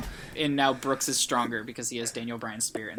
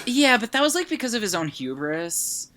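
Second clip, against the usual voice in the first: Brooks impression; 8 semitones higher than usual. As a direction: start high on the objection, then ease down. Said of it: "I'm, like, doing my Brooks voice".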